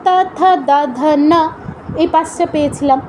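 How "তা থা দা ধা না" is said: তা, থা, দা, ধা, না with tongue on the teeth; dental consonants. Shown as a demonstration. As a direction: recite তা, থা, দা, ধা, না as dental syllables. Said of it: "দন্তবর্ণ কী কী পেয়েছিলাম".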